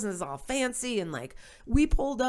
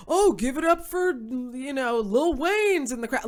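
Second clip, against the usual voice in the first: emcee plugging celebrities; 4 semitones higher, 3 dB louder than usual. Retold or imitated. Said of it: "they keep stopping the show".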